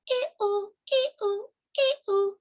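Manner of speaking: high two-note swan calls. Acted. Story's swans answer.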